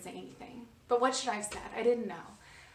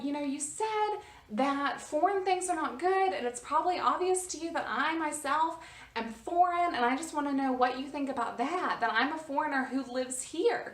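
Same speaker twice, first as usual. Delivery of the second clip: projecting; 4 semitones higher than usual. Retold or imitated. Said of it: "I'm speaking really, really loud".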